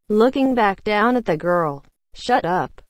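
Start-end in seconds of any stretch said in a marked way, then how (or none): none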